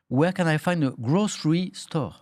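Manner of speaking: English in a strong French accent, slowly spelled out; unashamed French-accented English. Shown as a demonstration. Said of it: "en anglais avec mon accent à moi".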